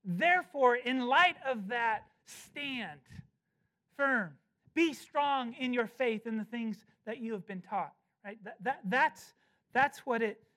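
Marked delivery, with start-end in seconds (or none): 0.0-7.9 emphatic Paul voice; emphatic paraphrase. Acted. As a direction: speak Paul's charge boldly. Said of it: "He's saying".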